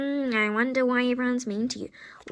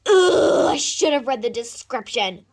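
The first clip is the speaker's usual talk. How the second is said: whiny fake cry; 5 dB louder than usual. Regret, crying sound heard.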